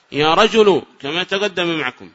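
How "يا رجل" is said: "رجل" ending in a bare -u; damma without tanween. Shown as a demonstration. Teacher models addressing one specific man, "رجل" said rajulu. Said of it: "لو قصد رجلًا معينا لقال".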